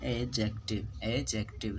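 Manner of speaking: "एडजेक्टिव" as e-jective, silent d, falling; model pronunciation. Shown as a demonstration. Teacher demonstrating the silent d, "एडजेक्टिव" as e-jective. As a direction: repeat "एडजेक्टिव" with no d. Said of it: "डी यहाँ पर silent".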